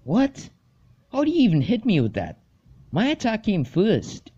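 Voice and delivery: high-pitched gamer protest; indignant disbelief. Acted. Losing player protests in game.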